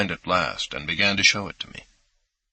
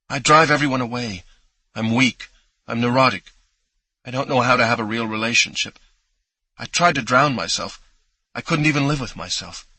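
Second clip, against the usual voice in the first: louder, higher, desperate self-reproach; distraught; 4 semitones higher, 3 dB louder than usual. Acted. Jewel confessing her failures to Kat, distraught. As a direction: spill it out in a rush of shame.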